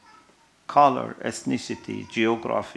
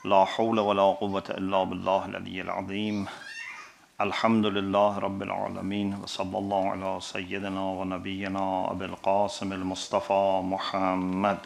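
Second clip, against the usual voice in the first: quicker, even-pitched liturgical recitation; formal Arabic invocation; 2 semitones lower, much faster than usual. Real, not acted. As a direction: recite the opening blessings in a level, flowing tone. Opens lecture with Arabic invocation.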